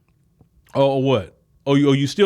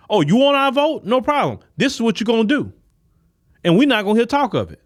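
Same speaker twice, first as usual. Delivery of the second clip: mock bold demand; 6 semitones higher than usual. Voters telling a Republican the deal, cocky high demand. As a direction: lay down terms with a grin.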